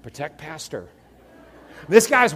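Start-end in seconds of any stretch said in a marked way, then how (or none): 0.0-0.9 a hint of robotic monotone. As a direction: imitate a robot on a mission. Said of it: "it's just like a, a robot".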